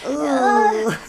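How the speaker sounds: high, whiny protest about work; mock whining. Retelling her dread of work.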